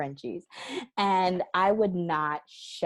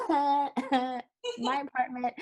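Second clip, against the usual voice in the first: drawn-out mock protest; 7 semitones higher, much slower than usual. Mocking landlady rule.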